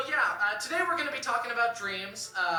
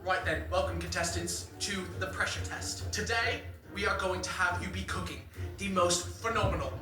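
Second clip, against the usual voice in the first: Gordon Ramsay impression; 2 semitones lower than usual. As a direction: do a lightly British Gordon. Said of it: "And Gordon is like".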